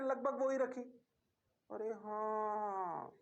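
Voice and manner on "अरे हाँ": mock student reply. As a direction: drawl it like a sleepy student agreeing. Teacher voices students' reply.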